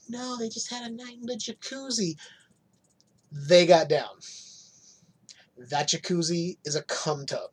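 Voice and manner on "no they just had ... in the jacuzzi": lightly voiced coy denial, a bit higher and softer; mock innocent denial. To viewers, mocking Bachelor cast's coy denial. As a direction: play it innocent, sweetly denying.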